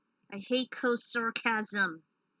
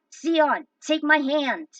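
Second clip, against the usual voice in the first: loud shout, pitched up; urgent call; 5 semitones higher, 10 dB louder, slower than usual. Acted. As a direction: reach out with your voice. Coe calls to fallen friend.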